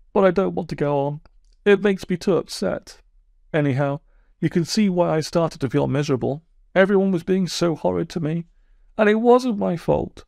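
sulky, wounded toad telling his woes; aggrieved Toad. Acted. Toad voiced by narrator.

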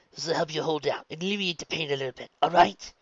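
put-on brisk encouraging older woman; midwife voice. A narrator's reading. Midwife giving medicine.

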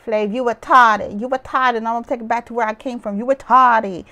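a hint of Sweetie's sassy taunt; lightly voiced taunting, stretched retarded; imitating Sweetie. Retelling Sweetie insulting Flav, lightly mocking. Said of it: "And Sweetie said".

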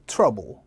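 "trouble" with a loose "uh" first vowel; relaxed vowel. Shown as a demonstration. Teacher contrasting it with travel, "trouble" with a relaxed vowel. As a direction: drop "trouble" low with an unspread mouth. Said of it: "얘는 힘을 좀 빼시고".

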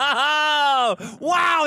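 loud high laughing whoop; laughing shout. Real, not acted. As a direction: burst out laughing in delight. Delighted at the slip.

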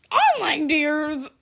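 slow laughing repeat. Real, not acted. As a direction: say it cracking up. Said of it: "repeated phrase".

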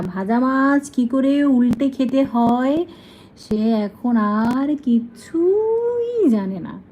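slow, mock-sarcastic aside about the bird; slow teasing aside. Real, not acted. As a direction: tease it slowly and drily. Mocking the bird to others.

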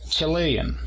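Chilean leaning on le; stress on the second syllable. Shown as a demonstration. Teacher models the nationality, stress on le. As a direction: lift the le of Chilean. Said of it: "a partir de la segunda sílaba".

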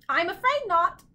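high, loud bird lament; sad. A narrator's reading. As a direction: own up sorrowfully in a bird voice. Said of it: "he replied sadly".

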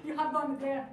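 loud, amused laughing remark. Real, not acted. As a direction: laugh heartily, then talk through it. Amused by an audience answer.

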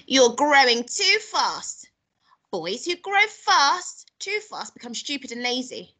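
slow, high-pitched grandma reproach; scolding grandma. Acted. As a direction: drag out the scolding, loud at first.

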